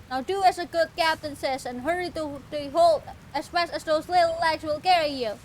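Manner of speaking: lightly voiced grand old sea captain; a hint of a theatrical captain. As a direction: read it like a pompous ship captain. Reading captain NPC.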